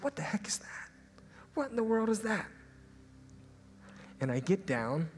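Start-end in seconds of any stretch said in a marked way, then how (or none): 0.0-2.5 high whisper breaking into higher surprise; surprised whisper. Retold or imitated. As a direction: spot something odd in the dirt. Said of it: "and I said".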